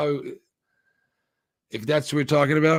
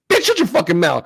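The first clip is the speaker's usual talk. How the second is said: a pretend snapped retort, louder and higher; mock angry retort; 5 semitones higher, 8 dB louder than usual. Gamer pretending to scold a character, mock angry. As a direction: tell her off as if you were in the scene.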